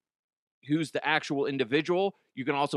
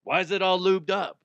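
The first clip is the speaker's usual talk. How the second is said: mock doctor; 5 semitones higher than usual. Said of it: "says the doctor".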